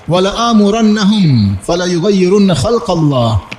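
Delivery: slow, drawn-out Arabic recitation; Qur'anic recitation. Acted. Preacher citing Satan's vow from the Qur'an, slow recitation. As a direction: recite the verse with long held vowels.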